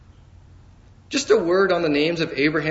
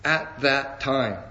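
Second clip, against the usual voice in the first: slow it right down and lay weight on at that time; emphasized phrase; 3 semitones lower, much slower than usual. Shown as a demonstration. Preacher underlining a phrase for the congregation, slow and deliberate. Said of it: "I want to emphasize the words".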